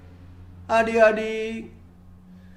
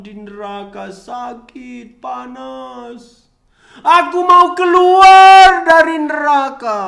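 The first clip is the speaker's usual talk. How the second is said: mock crying; 5 dB louder than usual. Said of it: "Dia nangis".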